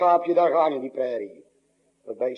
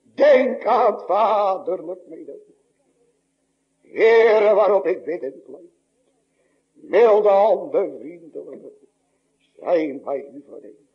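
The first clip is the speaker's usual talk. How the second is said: a lost soul's loud pleading prayer, stretching "Milde handen"; preacher voicing a lost soul's cry to God, pleading; 4 dB louder, slower than usual. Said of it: "Wat zou die dan schreeuwen?".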